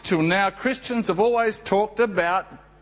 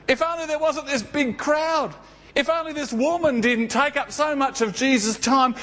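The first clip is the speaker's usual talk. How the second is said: anguished regret; 6 semitones higher than usual. Acted. Jairus lamenting his regrets.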